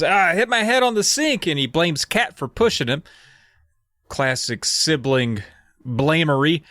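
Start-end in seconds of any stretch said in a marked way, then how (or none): 0.0-1.4 put-on whiny kid. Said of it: "Daniel, uh, says".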